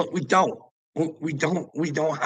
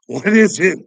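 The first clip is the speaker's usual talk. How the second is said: much higher and louder, pressing the question; exasperated loud repeat; 7 semitones higher, 11 dB louder than usual. Real, not acted. Pressing Joanna about Justin, loud and exasperated. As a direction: fire the question again, demanding. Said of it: "what is it you love about Justin".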